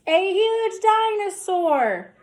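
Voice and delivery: high, loud and slow; storyteller's big reveal, slow and loud; dramatic reveal. A narrator's reading. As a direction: unveil the dinosaur with awe.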